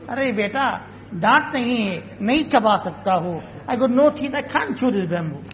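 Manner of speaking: put-on high, loud toothless old lady; a hint of an old granny pleading.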